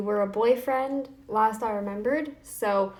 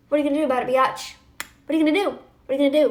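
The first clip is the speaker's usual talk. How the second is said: higher, louder snarky dare; cocky taunt, pushing higher and louder; 4 semitones higher, 6 dB louder, much faster than usual. Real, not acted. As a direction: goad him, snarky and loud. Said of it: "I'm feeling snarky today".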